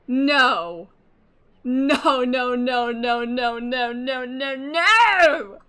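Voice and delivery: loud, crying no, no; anguished shouting. Real, not acted. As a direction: wail the no in despair. Despairing at the reveal.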